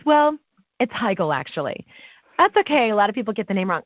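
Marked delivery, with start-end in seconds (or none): 0.1-1.9 pointed correction. Retold or imitated. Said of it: "she goes".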